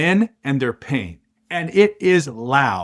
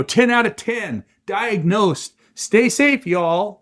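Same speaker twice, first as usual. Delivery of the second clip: mocking online voice; 6 semitones higher, slower than usual. Mocking online comment section.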